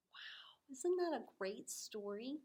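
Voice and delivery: soft hushed question; whisper. Real, not acted. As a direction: lean in and whisper. Teacher whispers to children.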